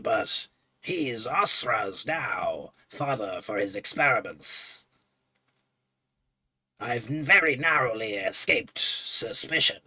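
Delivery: a weary mourner; low grieving NPC. Acted. NPC laments lost friends.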